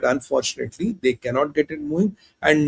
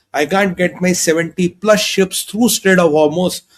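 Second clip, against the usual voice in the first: mock despair; 6 semitones higher than usual. China voiced admitting defeat.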